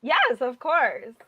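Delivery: slow put-on British reply; British accent. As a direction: answer with mock-British politeness. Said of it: "unless you say it in a British accent".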